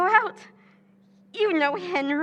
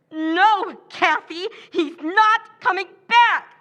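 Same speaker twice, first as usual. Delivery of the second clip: insistent outburst; 3 semitones higher, 6 dB louder, slower than usual. Acted. Pam insists Henry won't return.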